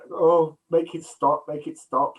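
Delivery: drawn-out exasperated moan; pained plea. Retold or imitated. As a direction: beg for the noise to stop, slowly. Tim Robbins suffering in front.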